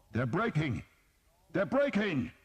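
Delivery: high, loud rising cry; triumphant shout. A narrator's reading. An unknown soldier calling the rout, shouted. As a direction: cry out the news exultantly.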